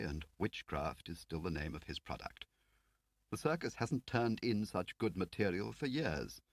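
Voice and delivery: a prim Whitehall man; fussy official Lakin. Acted.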